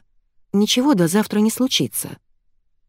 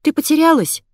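put-on excited girl; 10 semitones higher, 4 dB louder than usual. Masha comforts lost girl.

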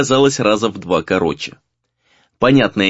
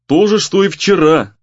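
mildly sullen, higher-pitched retort; 5 semitones higher than usual. A narrator's reading. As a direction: answer with a touch of grumpiness. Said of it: "угрюмо отозвался тот".

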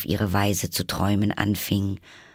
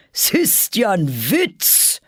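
annoyed; 11 semitones higher, 4 dB louder, slower than usual. A narrator's reading. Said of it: "fügte der König ärgerlich hinzu".

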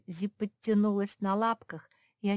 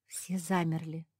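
plain reading voice

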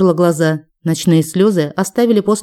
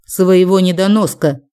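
hissed through teeth. Acted. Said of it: "процедила она".

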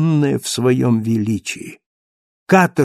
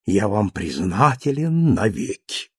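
lower, softer, fawning address; servile bow; 3 semitones lower, 3 dB quieter than usual. Acted. Thenardier bowing low to Marius, fawning and soft. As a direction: grovel as you bow low. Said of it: "кланяясь до земли".

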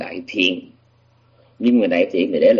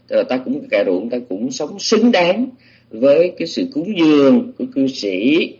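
slower, higher declaration in the Buddha's words; lightly voiced Buddha; 3 semitones higher than usual. Buddha answering that he earns the alms, lightly voiced. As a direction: lightly voice a teacher stating his worth, drawn out and raised. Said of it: "cho nên ở đây đó là Ngài".

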